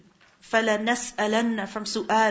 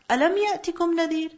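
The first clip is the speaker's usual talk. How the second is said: angels' rebuke; 5 semitones higher, much faster than usual. Acted. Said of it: "they will ask".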